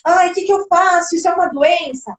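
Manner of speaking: mock a parent fretting over a child; lightly acted parental worry; worried mothers. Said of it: "muitas mães de crianças de educação infantil procuram a gente".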